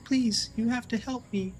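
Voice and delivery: high, pleading, frantic call; desperate cry for help. Acted. Hidden creature begging the party for help, high and desperate. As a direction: beg for rescue from far off, high-pitched. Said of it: "moves its mouth ... like".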